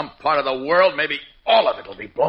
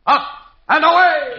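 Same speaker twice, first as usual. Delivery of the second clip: loud, high heroic call; heroic shout; 7 dB louder than usual. Acted. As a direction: call it out as you launch. Superman takes off.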